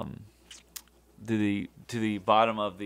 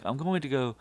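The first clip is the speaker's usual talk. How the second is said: sarcastic; 5 semitones higher, faster than usual. Retold or imitated. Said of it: "sarcastically say".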